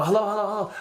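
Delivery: high, panicky call into the phone; urgent hellos to the operator; panicked caller on an emergency line. Retold or imitated. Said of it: "and I go".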